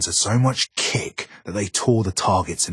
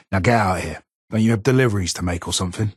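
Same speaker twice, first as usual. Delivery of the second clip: gruff brush-off; 2 semitones higher, 5 dB louder, faster than usual. Real, not acted.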